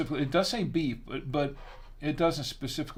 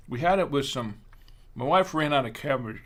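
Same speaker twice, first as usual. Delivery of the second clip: talking with a mouthful; chewing while talking; mouth full; 4 dB louder than usual. Real, not acted. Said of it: "I'm talking a mouthful".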